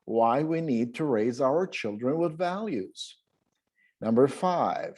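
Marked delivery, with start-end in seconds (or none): 0.1-3.0 "with" stressed, falling at the end; one-breath phrase. Shown as a demonstration. Teacher repeats the phrase as a one-breath model. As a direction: keep it all in one breath. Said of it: "saying the whole detail with one breath".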